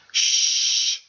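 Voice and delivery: whispered shh; hushing. Acted. Medium hushing the meeting, whispered shh. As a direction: silence the room.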